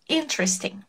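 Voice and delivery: Interesting said softly, IN-tres-ting; soft interesting demo. Shown as a demonstration. Teacher repeats Interesting quietly. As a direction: go straight from T to R in Interesting. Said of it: "Vai do T pro R".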